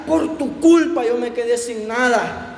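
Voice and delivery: scolding the animal, slowing on the blame; a bitter, drawn-out reproach; angry scolding. Acted. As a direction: owner scolding the donkey for losing everything. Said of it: "lo regañaba".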